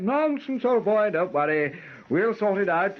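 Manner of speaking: a hint of a hearty, reassuring father; lightly voiced jolly old father; imitating Papa. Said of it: "And he said".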